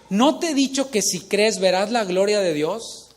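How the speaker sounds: emphatic reminder, voiced as a question; emphatic rebuke. A narrator's reading. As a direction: press the question home with emphasis. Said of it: "más enfático".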